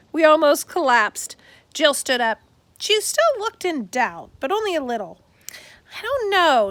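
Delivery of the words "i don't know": slowly. A narrator's reading. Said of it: "she said slowly".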